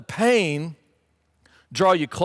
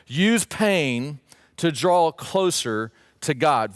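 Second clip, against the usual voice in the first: slow dictation; much slower than usual. Real, not acted. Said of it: "write this down".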